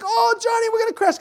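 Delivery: very high, loud pretend alarm; hammed-up panicked yell to amuse the kids; playful mock panic. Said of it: "I played like".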